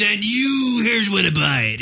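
pitchman pointing at camera. Retold or imitated. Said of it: "he goes".

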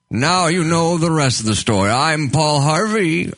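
put-on lightly done old radio host; 1950s narrator. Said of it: "that old guy voice".

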